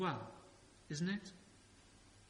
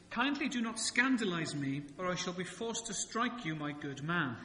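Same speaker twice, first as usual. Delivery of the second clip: mock-formal translation; 2 semitones higher, 3 dB louder than usual. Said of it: "then I'll do the translation".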